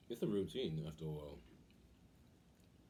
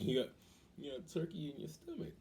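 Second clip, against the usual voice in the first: laughing joke; 7 semitones higher than usual. Real, not acted. Laughing joke about turkey belly.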